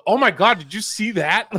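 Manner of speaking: höher und lauter, aufgeregt nachgemachte Tochter; excited daughter. Retold or imitated. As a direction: eine Tochter spielen, die vor Staunen ausruft. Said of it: "one of my daughters goes".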